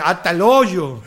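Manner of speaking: hoyo drawn out slowly; slow northern "hasta el hoyo"; northern saying. Shown as a demonstration. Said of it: "como decimos en el norte".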